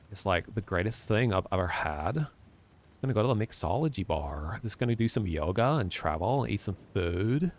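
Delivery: lightly imitated Californian surfer accent, laid-back; a hint of West Coast surfer accent, easygoing and dreamy. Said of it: "Surfer accent".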